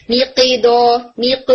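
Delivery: میق with a faulty kasra pull; wrong qalqala. Shown as a demonstration. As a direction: drop the jaw on the ق of میق. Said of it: "نہیں، اس کو آپ نے relax رکھنا ہے".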